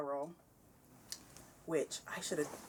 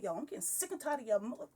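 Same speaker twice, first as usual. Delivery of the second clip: mock fed-up rant, pitched up; retold swearing; 5 semitones higher than usual. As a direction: act out losing patience, cut off before the curse. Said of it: "I was swearing at them".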